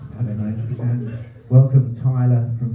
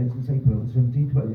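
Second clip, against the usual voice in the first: fast mutter; 4 dB quieter, much faster than usual. Retold or imitated. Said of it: "I know what it's gonna say".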